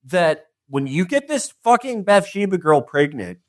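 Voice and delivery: scolding God. Retold or imitated. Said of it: "And God's like".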